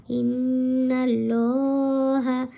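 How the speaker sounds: ইন্নাল্লাহা with the lam said full and round; ইন্নাল্লাহা, heavy rounded lam, drawn out; full heavy Allah. Shown as a demonstration. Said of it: "ল এরমভাবে পড়তে হবে ... পুর করে".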